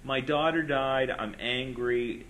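overacted grieving Boston father; mock Boston accent. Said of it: "this is my Boston accent".

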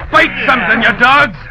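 goading shout. Acted. Mate goading rowers.

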